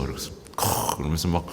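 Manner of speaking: ordinary delivery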